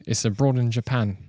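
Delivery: British accent on "abroad". Shown as a demonstration. Repeating the channel name proudly, British accent. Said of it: "I can do British".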